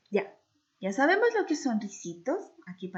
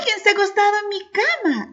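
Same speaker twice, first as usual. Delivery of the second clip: higher, gentle mother bear; mama bear's soft voice; 10 semitones higher, 9 dB louder, much faster than usual. Acted. As mama bear noticing her soup, soft motherly voice. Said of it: "con voz suave".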